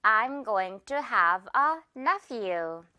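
I'm going to have a nephew, very slowly, each word apart; slow classroom model sentence; very slow demo. Shown as a demonstration. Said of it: "한 번 더".

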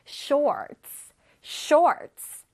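"Shorts" with the tongue back on R. Shown as a demonstration. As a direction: pronounce the English R in "Shorts". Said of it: "뒤에 있습니다". ("Shorts"의 R을 혀 뒤로 발음)

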